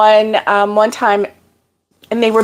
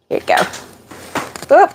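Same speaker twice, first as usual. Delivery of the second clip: slow whisper; whispered coaxing; 6 semitones higher, slower than usual. Real, not acted. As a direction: breathe it out slowly, coaxing. Gently coaxing the dog.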